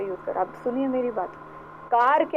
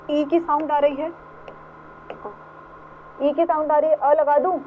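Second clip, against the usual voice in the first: put-on bait the kids with a trick question; quizzing the class; 5 semitones higher than usual. Shown as a demonstration. Teacher quizzing children on the article. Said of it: "क्या बोलूं बेटा?".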